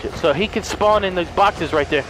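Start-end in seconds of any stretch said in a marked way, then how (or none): 0.0-0.1 soft, whispered swearing; whispered cursing. Real, not acted. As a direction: hiss it under your breath in worry. Boss breaking down the door.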